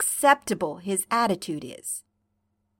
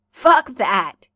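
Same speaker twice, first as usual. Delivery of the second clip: gurgle; 7 dB louder than usual. Acted. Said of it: "you gurgle".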